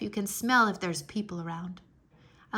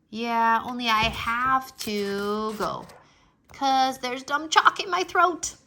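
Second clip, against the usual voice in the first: stubborn protest; 2 semitones higher, 5 dB louder, slower than usual. Acted. Stamps her foot.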